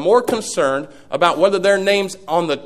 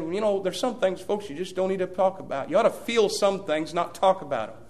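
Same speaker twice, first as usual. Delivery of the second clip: quiet rebuke; 7 dB quieter than usual. Retold or imitated. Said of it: "And he said".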